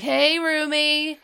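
high, drawn-out mock greeting; playful greeting. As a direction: stretch it out high, like a cheeky surprise visitor. Eric pops up beside roommate.

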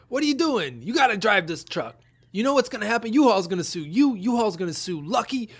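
high, loud mock cop lecture, half laughing; hammed-up cop. Retelling the cop scolding her friend, high and loud.

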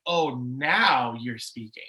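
slow, indignant retold tirade, leaning on NOW; angry at God. Railing at God on the drive home, angry. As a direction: challenge God with stretched-out, accusing emphasis. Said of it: "really upset and really angry at God".

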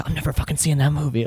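a touch of jokey disdain; a hint of a snobby moviegoer; mock film critic. Imitated trailer critic.

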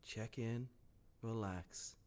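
low, hushed movie trailer narrator; soft, slow, ominous tagline delivery; horror trailer voice. Pretend.

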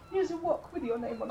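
"wok" said with a W, through laughter; laughing. Shown as a demonstration. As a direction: giggle through it, saying "wok" on purpose. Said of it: "You know, one of them big pans?".

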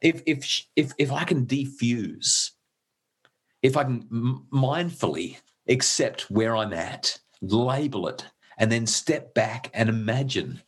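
slow, halting, real emotion; getting emotional. Real, not acted. Father tapping into what matters most, getting emotional. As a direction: stumble and pause, moved by your own values. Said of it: "sorry, I'm getting all emotional about it".

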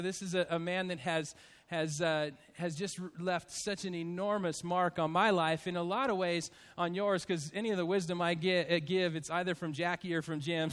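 low, soft and halting, real sadness; subdued grief. Real, not acted. Pastor honouring his dying mentor to the congregation, subdued and sad. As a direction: speak softly and low, faltering over the words.

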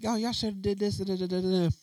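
high, nagging mock voice; mocking know-it-all. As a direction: mimic the know-it-all critics.

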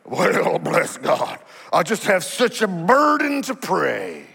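mock pious sigh, slowed down; lightly sour church-lady piety; sour religious voice. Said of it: "like you've just gotten baptized in vinegar".

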